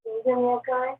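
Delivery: on speakerphone. Real, not acted. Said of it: "like maybe on speakerphone or Bluetooth".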